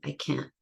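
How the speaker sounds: "I can't" ending in a glottal stop, soft; "can't" with no t heard; throat stop. Shown as a demonstration. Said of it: "I'm stopping in my throat this time".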